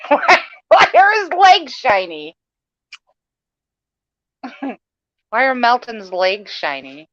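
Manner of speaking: laughing through the words; giggling disbelief. Real, not acted. Laughing at a picture.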